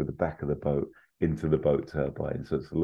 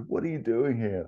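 surprised; 8 semitones higher than usual. Retold or imitated. Indy, shocked, to father.

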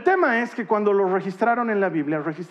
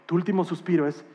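much softer and lower; hushed and grave; 6 semitones lower, 8 dB quieter, faster than usual. Real, not acted. Preacher to the congregation on dying, hushed and solemn. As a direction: speak of death barely above a breath. Hushed talk about death.

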